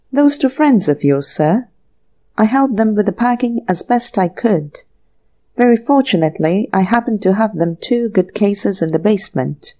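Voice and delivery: bow and explain like a polite butler; deferential butler. Acted. Butler Rogers explains packing.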